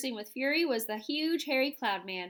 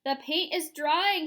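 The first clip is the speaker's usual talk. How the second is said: higher, slow, louder moan; 5 semitones higher, 5 dB louder, slower than usual. A narrator's reading. Centipede moaning as paint hardens. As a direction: moan in dismay. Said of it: "he moaned".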